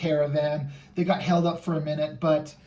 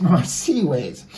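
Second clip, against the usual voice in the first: slow, loud echo of the pun; hammed-up pun; 5 dB louder, slower than usual. Host echoing the guest's sea pun, hammed-up. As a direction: savor the pun, drawn out and louder.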